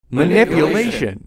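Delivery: hammed-up villain roar; mock villain shout. Quoting the villain to the bus driver, hammed-up shout. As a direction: bellow it, big and theatrical.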